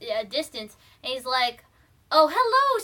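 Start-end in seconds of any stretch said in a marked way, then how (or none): 2.1-2.8 high, loud greeting call; acted-out relieved hello; hailing a stranger. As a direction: hail a figure in the distance. Carl hails distant figure.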